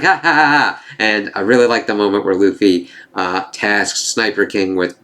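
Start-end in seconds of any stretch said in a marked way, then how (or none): 0.0-0.8 mock laugh, somewhat higher; imitated villain laugh. Recapper mimicking the villain's reaction to his enemies, mock laughing. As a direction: put on a villain's ha-ha-ha. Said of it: "Spanda being like".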